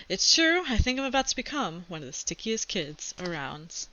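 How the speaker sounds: put-on reading a chapter book aloud to kids; steady read-aloud storytelling; story narration. A narrator's reading. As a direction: tell it like a kid's diary read to class.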